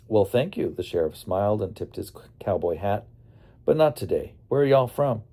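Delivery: lightly voiced Texas lawman, easygoing; a hint of a Texas sheriff greeting the kids; Texan accent. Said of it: "He had quite the accent".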